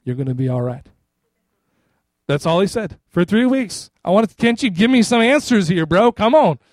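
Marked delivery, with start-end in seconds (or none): 0.0-0.8 a hint of a calm, reassuring pastor. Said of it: "all my pastor said to me". 4.4-6.6 higher, louder pleading protest, lightly acted; exasperated retold appeal, pitched up; mock exasperation. Acted exasperated plea to pastor.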